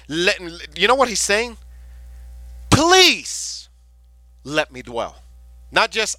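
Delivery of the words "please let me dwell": begging. Acted. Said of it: "He is begging".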